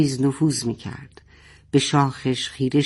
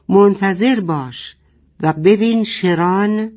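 higher, louder, slow defiant shout; 5 semitones higher, 4 dB louder, slower than usual. Acted. Father shouting defiance at Sheran, slow loud shout. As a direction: fling the challenge slowly. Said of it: "فریاد زد".

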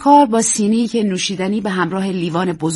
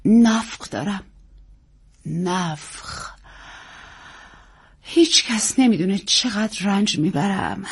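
self-pitying, fading much softer and slow; mock suffering; 3 dB quieter, slower than usual. Actress complains of wind to hostess, mock suffering. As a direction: moan it with stagey self-pity. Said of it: "با صدای معروفش گفت".

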